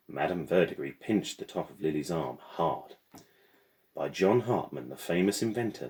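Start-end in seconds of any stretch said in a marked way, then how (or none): 3.9-5.9 lightly voiced proud mechanical porter; a porter boasting mildly of his maker. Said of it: "the mechanical said proudly".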